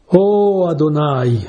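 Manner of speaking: slow, drawn-out Oh of prayer; prayerful invocation. Acted. Preacher voices the psalmist praying to God, slow and reverent. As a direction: call on the Lord slowly and reverently.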